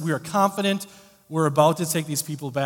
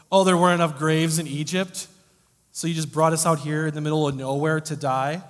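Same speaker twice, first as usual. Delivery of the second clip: mock-sarcastic complaint, a touch louder; 3 dB louder than usual. Israelites sneering sarcastically at Moses, mild mock sarcasm. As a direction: throw the line back at Moses with a sneer. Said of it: "sarcastic call to Moses".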